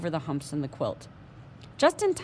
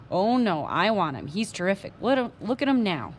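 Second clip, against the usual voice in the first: excited; 2 semitones higher, 4 dB louder than usual. Acted. Patrick refuses, excited.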